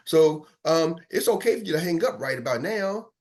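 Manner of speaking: ordinary talk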